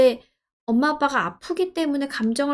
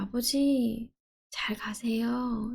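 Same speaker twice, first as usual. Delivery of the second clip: slow, soft whisper to a late father; whispered farewell; 6 dB quieter, much slower than usual. Pretend. A grieving daughter bidding her father goodbye, whispering slowly. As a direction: let go of him in a hushed whisper.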